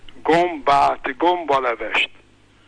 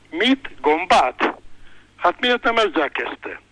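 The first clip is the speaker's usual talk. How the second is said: surprised exclaim; 4 semitones higher, slower than usual. Retold or imitated. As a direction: finally get it and exclaim. Policeman finally understands, exclaiming.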